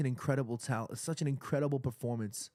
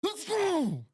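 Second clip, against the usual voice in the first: victory scream; much slower than usual. Real, not acted. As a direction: scream with joy at the final whistle. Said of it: "I gotta scream a little bit".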